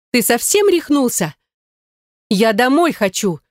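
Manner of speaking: high, slow indignant squeal; shrill squeal. Acted. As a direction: squeal it out in outrage. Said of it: "взвизгнула она".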